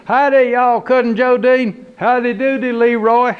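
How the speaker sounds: high, loud officious greeting; Leroy's phone voice. Acted. Cousin Leroy answering the phone, officious. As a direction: puff up the title.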